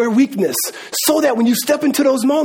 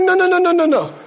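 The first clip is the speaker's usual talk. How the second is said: imitated dean's refusal; 7 semitones higher than usual. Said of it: "She's like".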